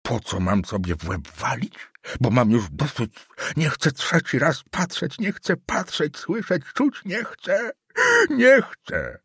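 put-on old councillor refusing, building to a high cry; rising old man's rage. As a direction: work yourself up to the last nie chcę. Old councillor works himself up.

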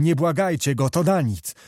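a hint of despair in the voice; officer lamenting the prince's betrayal; desperate crying out. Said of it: "począł wołać rozpaczliwym głosem".

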